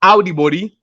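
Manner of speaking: Audi body with ow sound, rise on Audi; Krio greeting. Shown as a demonstration. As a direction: start Audi like ow, then body. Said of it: "it's ow".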